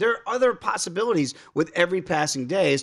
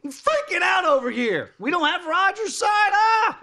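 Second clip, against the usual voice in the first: mock panic; 13 semitones higher than usual. Coach mocking himself as panicking, frantic high yell. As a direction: play the coach losing it, hammed up. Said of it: "what's Salah gonna do?".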